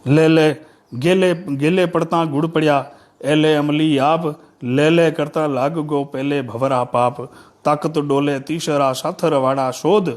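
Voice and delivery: measured, metrical poem reading; declaimed folk poetry with pauses at each phrase; verse recitation. Acted.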